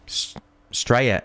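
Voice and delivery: drawled mock bogan "Straya"; Bogan accent. Quoting the viewer's band, in a broad mock Aussie voice. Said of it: "as the band sing Australia".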